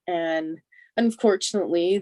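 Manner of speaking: normal talking voice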